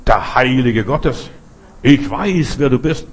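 possessed man screaming at Jesus; demon crying out. Acted. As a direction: rage out the demon's words at Jesus. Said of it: "Und er schrie".

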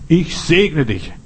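solemn blessing. Acted. Preacher voices God blessing the listener, slow and solemn. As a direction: bless them slowly, each word weighed.

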